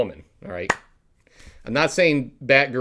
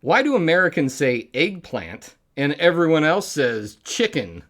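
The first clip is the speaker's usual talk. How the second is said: put-on British accent, higher and louder; 6 semitones higher, 4 dB louder than usual. Comic tells a British joke to the audience, put-on British accent. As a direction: tell it in a mock British accent. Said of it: "I'll say it in a Br-, a British accent".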